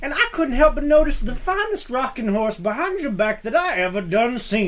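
lightly voiced old prospector; a hint of a slow old-timer drawl. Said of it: "as an old prospector".

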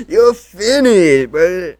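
slow, loud, laughing pronouncement; laughing verdict at the co-host. Real, not acted. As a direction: declare him done through a laugh. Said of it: "laughing verdict".

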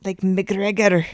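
slow, drawn-out Scottish try; attempted Scottish accent. Shown as a demonstration. Co-host tries a really Scottish word, slow Scottish attempt. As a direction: draw the name out in rough Scottish. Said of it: "words that sound really Scottish".

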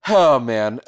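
breaking into laughter; laughing. Real, not acted. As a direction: giggle through it. Speaker cracks up at code.

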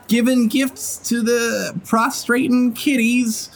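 high, slow drawling character voice; friendly cowgirl-style employer. Acted. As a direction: tease a partner, drawing out the words. Game master voices Ramira.

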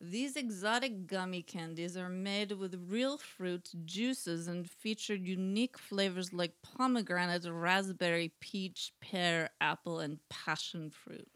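slow, measured read-aloud copy; deliberate listing of flavors; product blurb reading. Real, not acted. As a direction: read it like a candy advert. Reads out the candy description.

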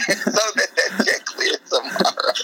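high-pitched, laughing through the words. Real, not acted. Comedian finishing his own robber bit, laughing. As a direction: crack up while finishing the punchline.

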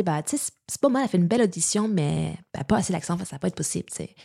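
light imitation of Québécois French; quoting casting people in mock Québécois; Québécois accent. Shown as a demonstration. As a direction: put on a Québécois accent for the quote. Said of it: "je vais te le faire".

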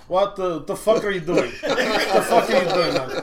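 imitated baffled Russian accent, laughing; Russian roommate accent. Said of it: "And he goes".

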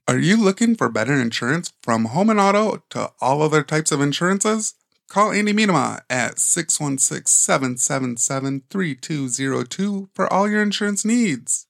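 lightly polished sponsor read; a touch of radio-ad delivery. Acted. Reads the sponsor ad.

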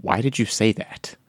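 hushed whisper, unvoiced. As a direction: whisper it under your breath. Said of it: "Nerdbomb would be like".

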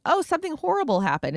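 hammed-up friend faking a crisis; mock dramatic excuse. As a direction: pretend the bad date is an emergency. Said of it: "by saying".

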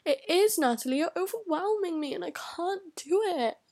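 retold exasperated wail; overwhelmed protest. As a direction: plead back, pitch swooping up. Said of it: "I get really overwhelmed".

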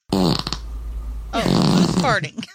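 hushed whisper. Real, not acted. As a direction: whisper the question in surprise. Sudden fart smell, unvoiced.

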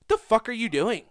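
hammed-up betrayed yelling; mock outrage. Comic telling his roommate off for stealing the joke, in mock outrage. Angry at friend stealing punchline.

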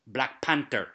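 put-on second version of an actor's wandering African accent; lightly mimicked African accent on Black Panther, falling away; imitated changed accent. Critic showing how the actor's accent changed, lightly imitated African accent. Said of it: "his accent slipped so many times and changed".

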